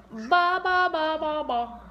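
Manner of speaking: mock baby babble "ba, ba", fading; baby's hi babble. Mom repeating her baby's hi, light babble. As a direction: bounce the "ba" sounds, trailing off. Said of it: "That's how he says hi".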